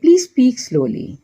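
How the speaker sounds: very slow, every word laid out clearly; slow model phrase. Shown as a demonstration. Teacher slowly models an English apology for Hindi learners. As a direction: say it slowly so learners can repeat it. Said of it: "या कहेंगे".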